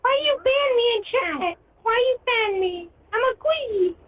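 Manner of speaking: cartoon character voice. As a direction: whine like a cartoon. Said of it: "you're speaking like a cartoon character".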